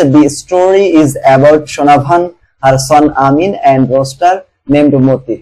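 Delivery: slow, careful read of a model summary; measured classroom dictation. Acted. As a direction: read it out so students can write it down. Teacher reads summary aloud slowly.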